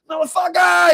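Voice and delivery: yelled high and loud; a hammed-up war cry; mock battle shout. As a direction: bellow it at the enemy. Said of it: "So now I'm like".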